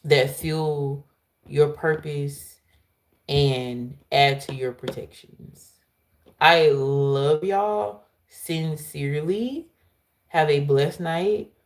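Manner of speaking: slow, tender closing; heartfelt slow farewell; sincere sign-off. Real, not acted. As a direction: ease it out warmly.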